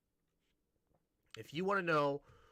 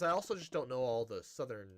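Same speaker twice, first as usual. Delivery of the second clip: ordinary delivery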